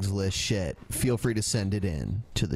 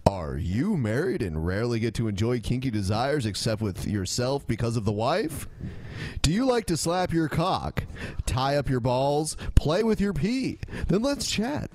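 infomercial voice. Pretend. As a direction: sell it like a late-night commercial. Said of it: "It sounds like an infomercial".

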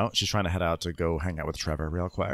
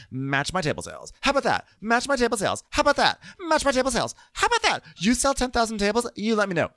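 high, loud mocking rant that climbs each time; mock angry taunt; 4 dB louder, faster than usual. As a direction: shout the taunt higher with every repeat. Acting out a taunting boast.

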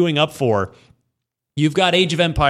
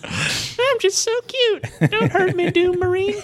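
very high, slow, sweet little character voice; cutesy squeaky voice. Pretend. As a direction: squeak it like a tiny cute critter. Voicing Animal Crossing character.

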